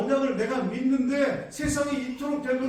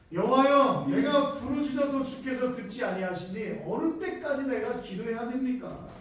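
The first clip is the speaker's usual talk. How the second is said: loud, pleading cry to God; anguished prayer lifted loud; prophet's cry; 2 semitones higher, 3 dB louder than usual. Acted. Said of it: "이 선지자가 이렇게 기도합니다".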